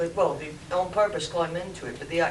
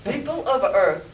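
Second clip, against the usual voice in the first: loud, booming alien ruler; Martian overlord voice; 4 dB louder than usual. Acted. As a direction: proclaim like an alien king. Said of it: "the Martian's voice spoke".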